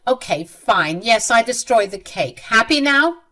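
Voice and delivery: mildly exasperated admission, rising at the end; a touch of defiant annoyance; irritated. Acted. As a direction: concede it with irritation. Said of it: "She said in an irritated voice".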